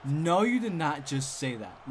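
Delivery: loud, drawn-out mock indignation; mock upset. Upset cheer girls snap back at his remark, mock indignant. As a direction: act out offended disbelief, stretching it. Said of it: "really, really upset. They're like".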